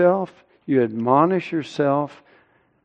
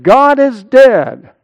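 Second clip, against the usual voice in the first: loud, high, drawn-out mock wail; mock yelling; 8 semitones higher, 8 dB louder, slower than usual. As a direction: cry it out slowly, imitating a wife's staged mourning. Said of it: "and yell out".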